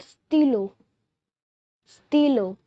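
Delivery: stylo said stee-LOH; French stylo. Shown as a demonstration. Teacher teaching viewers the French word stylo, clear demo. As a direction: model stylo for learners. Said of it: "We say pen in French".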